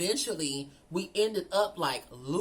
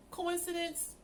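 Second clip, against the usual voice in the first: incredulous echo; 11 semitones higher, 4 dB quieter, slower than usual. Retold or imitated. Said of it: "I'm like".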